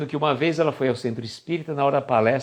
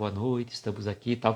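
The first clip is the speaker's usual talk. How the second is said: droning low monotone, no rise or fall; 4 semitones lower, 8 dB quieter than usual. Showing how not to address an audience, in a flat monotone. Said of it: "Não pode falar assim, ... que dá sono realmente".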